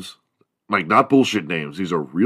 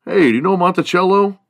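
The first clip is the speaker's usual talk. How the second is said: high, loud mock-gossip voice; gossipy classmate; 11 semitones higher, 5 dB louder than usual. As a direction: squeal it like a nosy teen asking about a rumor.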